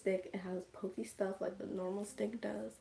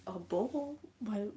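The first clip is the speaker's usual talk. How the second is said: puzzled, imitated; slower than usual. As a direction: echo it back in mock bafflement. Imitating host's puzzled question.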